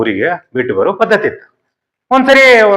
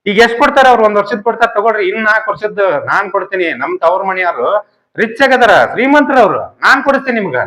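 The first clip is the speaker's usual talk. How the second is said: pleading daughter-in-law; 6 semitones higher than usual. Retold or imitated.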